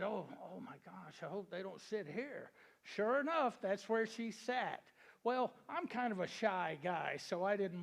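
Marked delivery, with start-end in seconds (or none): 0.0-2.5 soft, anxious under-the-breath hope; nervous aside. Retold or imitated. Shy guy, as the beautiful girl walks up, softly muttering a hope. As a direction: hush it as if she might overhear. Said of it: "so I said".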